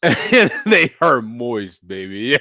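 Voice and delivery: slow, hammed-up Russian accent; dubious Russian accent. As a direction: attempt a Russian accent, drawn out. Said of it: "Is that Russian?".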